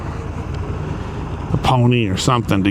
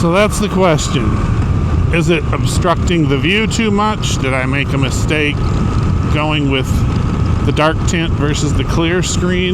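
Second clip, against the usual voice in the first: raised voice over wind; 2 semitones higher, 3 dB louder than usual. Real, not acted. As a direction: speak up inside a helmet on the move. Talking in helmet while riding.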